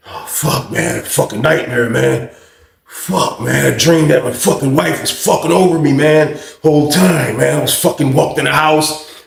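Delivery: just woke from a nightmare; groggy waking up. Retold or imitated. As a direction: cellmate groaning about a nightmare. Groggy cellmate woken.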